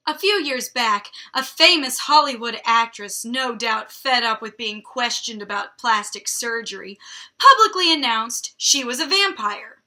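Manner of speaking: punchy, dramatic read-aloud; story narration. A narrator's reading. Reader telling of an actress's announcement, dramatic story narration. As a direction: read it out with big emphatic swells.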